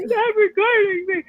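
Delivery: high, drawn-out mock wail; mock screaming. Mimicking the woman who won't walk away, mock screaming. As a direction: imitate a screamer, high and slow without extra volume.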